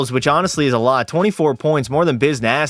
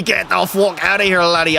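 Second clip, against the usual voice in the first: put-on Irish accent; 2 semitones higher than usual. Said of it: "went from French to being Irish".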